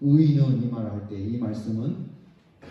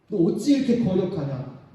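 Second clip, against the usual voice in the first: stern rebuke; 4 semitones higher, 3 dB louder than usual. Acted. God rebuking the sinner.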